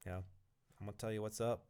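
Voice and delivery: bad imitation of a New York accent; gritty New Yorker, hammed-up New York accent. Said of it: "That's a terrible New York accent".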